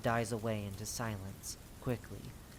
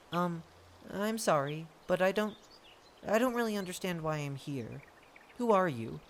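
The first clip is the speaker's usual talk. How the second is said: halting, higher, unsure voice; apologetic confusion; 5 semitones higher than usual. Acted. The confused scout asks the lord who he is, hesitant. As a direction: stumble politely towards the question.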